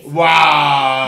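excited. Real, not acted. Excited at the food.

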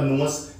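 ਨਿਊਅਸ said as nyoo-us in two syllables, not news; ਨਿਊਅਸ as two syllables, teacher correcting news; careful pronunciation. Shown as a demonstration. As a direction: split ਨਿਊਅਸ clearly into nyoo and us. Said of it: "ਇਸ ਨੂੰ ਕੰਟੀਨਿਊਅਸ ਬੋਲਾਂਗੇ ਆਪਾਂ".

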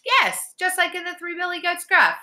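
put-on very high, delighted girl; thrilled, high-pitched agreement; happy excitement. A narrator's reading. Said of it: "Alex said happily".

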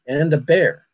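put-on light New England accent on bear; a lightly imitated New England accent; heavy New England accent. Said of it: "in a very heavy New England accent".

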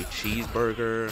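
lightly imitated American pronunciation; imitating an American saying cheeseburger; American accent. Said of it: "starting to talk like you guys".

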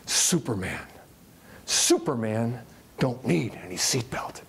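imitating a low, dismissive boxer; disdainful. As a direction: Ali brushing off the stewardess, disdainful. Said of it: "looks up at her disdainfully and says".

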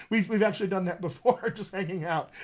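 giggling through a fond memory; laughing. Real, not acted. Coach recalls accent games with a friend, laughing. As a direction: let the laugh break into the words.

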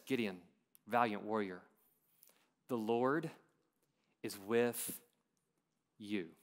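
slow and soft, a pause between each phrase. Shown as a demonstration. Preacher slowing the Lord's words for the congregation, slow and soft. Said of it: "Let's take it a little bit slower".

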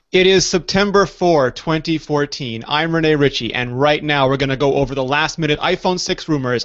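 podcast host opening the show, upbeat and announcing; show host intro. Acted. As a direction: announce the episode and welcome the co-host.

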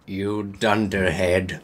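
low villain voice; Snape. A narrator's reading. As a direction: insult in a deep voice. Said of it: "shooted Snape".

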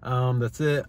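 talking while chewing gum; words around a wad of gum. Real, not acted. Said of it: "I'm sorry I'm chewing gum".

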